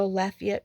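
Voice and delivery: Lafayette said "LAFF-ee-et"; own pronunciation. Shown as a demonstration. Repeating the phrase her preferred way, Lafayette pronounced LAFF-ee-et. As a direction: stress the front of Lafayette, "LAFF-ee-et". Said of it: "going back to Lafayette".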